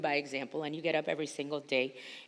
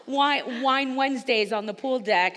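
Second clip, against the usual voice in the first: laughing; 6 semitones higher, 6 dB louder, slower than usual. Real, not acted. Laughs at request for pictures.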